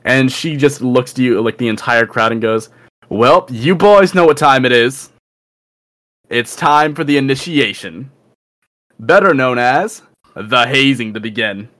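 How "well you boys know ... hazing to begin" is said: lightly voiced captain announcing an ordeal; a hint of a swaggering ringleader; squad captain. Captain opens the hazing before the crowd, lightly voiced swagger.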